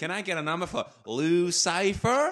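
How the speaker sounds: loud put-on American accent. Retelling how he asked for a number, in a put-on American accent. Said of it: "He was putting on an American voice".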